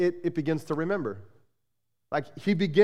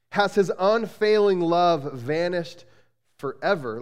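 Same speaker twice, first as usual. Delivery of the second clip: slow, pointed, bitter question; sarcastic; slower than usual. Acted. Pastor reads the psalm's question to his church, sarcastic. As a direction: drag it out, doubting the promise. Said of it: "you can almost hear the sarcasm".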